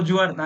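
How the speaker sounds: "জুয়ার্দা" starting with j instead of hard g; wrong j pronunciation. Shown as a demonstration. Teacher teases student's answer, "জুয়ার্দা" with j sound. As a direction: say "জুয়ার্দা" as JWAR-da. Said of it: "আমি বলবো শাকিল ভাই বলছে".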